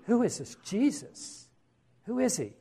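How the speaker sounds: high, softened astonished question; awed disbelief. Acted. Disciples after Jesus calms the storm, awed and amazed. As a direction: lift the pitch right up, hushed and wondering.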